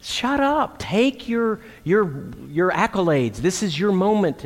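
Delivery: high, mock outraged "shut up"; hammed-up gushing at her gift; mock indignant excitement. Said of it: "And I was like".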